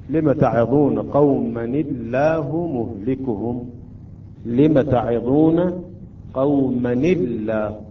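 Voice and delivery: slow recitation, قومًا الله joined as "qawmani-llah"; verse recitation, light lam. Shown as a demonstration. Teacher reciting the verse as example, slow measured recitation. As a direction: recite slowly, linking قومًا into a thin-lammed الله. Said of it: "عند ذلك ترقق اللام أيضًا".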